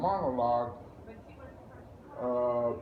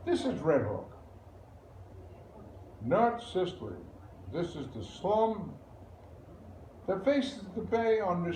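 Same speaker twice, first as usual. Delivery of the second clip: lightly acted lawyer-narrator, musing with emphatic swings; Alfieri monologue. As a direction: tell it like a lawyer narrating a stage play. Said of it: "the monologue is done by a narrator, a lawyer, called Alfieri".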